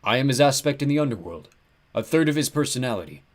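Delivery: big, mournful ram-god lament; like a huge lost sheep; horribly depressed. A narrator's reading. Ram god abandoned at the gates, depressed. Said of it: "He sounded horribly depressed".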